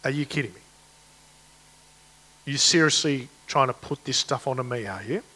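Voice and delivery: hushed disbelieving "are you kidding me"; quiet incredulous challenge; voicing God, incredulous. Preacher voicing God to Israel, hushed disbelief. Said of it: "No wonder God is going".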